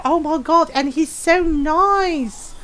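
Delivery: slow, high, swooning imitation; drawn-out hammed-up crush, breaking into a laugh; mock gushing. Girl swooning over her friend's dad, mock gushing.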